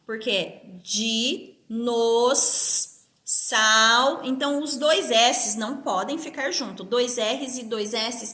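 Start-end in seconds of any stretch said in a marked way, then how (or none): 0.8-4.2 "dinos-, sal" in slow separate beats, di, nos, sal; "dinos-, sal" spelled out by syllable, long gap before sal; separated syllables. Shown as a demonstration. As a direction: break "dinos-, sal" apart with pauses. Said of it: "Como eu separo o dinossauro?".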